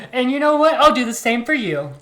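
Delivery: high, loud, laughing reply. Real, not acted. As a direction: say it through laughter. Laughing at the joke.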